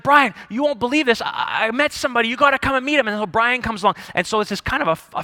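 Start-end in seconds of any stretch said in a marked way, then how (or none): 0.0-3.1 excited. Acted. Acts out Bobby urging his friend.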